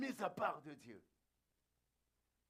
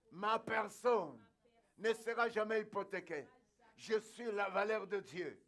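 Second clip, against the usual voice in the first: emphatic declaration; 4 dB louder than usual. Real, not acted. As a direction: proclaim it phrase by phrase for the congregation to repeat. Preacher's repeated declarations for congregation. (déclaration proclamée avec force)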